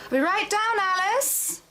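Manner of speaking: high, sustained sing-out; calling downstairs. Acted. Nesta answers Alice from upstairs, calling out. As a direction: holler brightly to someone a floor below.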